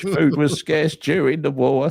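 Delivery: slow, drawn-out, lightly voiced Brian Clough; a slow, knowing hint of old Brian; slow, mock-wise football manager voice; Brian Clough impression. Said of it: "says Brian".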